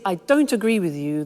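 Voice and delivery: mildly aggressive objection; a touch of confrontation; aggressive disagreement. Shown as a demonstration. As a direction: disagree bluntly, without softening. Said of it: "that's quite aggressive".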